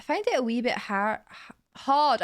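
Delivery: attempted Scots, stumbling on hard; Scottish accent. Shown as a demonstration. Trying to say hard for viewers, Scottish accent. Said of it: "in a Scottish accent".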